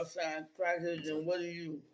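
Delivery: talking through a mouthful; words round a bite of food; mouth full. Real, not acted. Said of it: "you talking with your mouth full".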